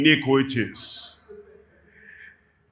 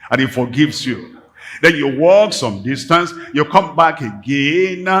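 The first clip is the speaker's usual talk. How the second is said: ordinary delivery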